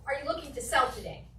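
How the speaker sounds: "Are you looking to sell today?" ending with a falling tune like a statement; falling question. Shown as a demonstration. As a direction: drop the pitch on "today". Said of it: "Down inflection at the end".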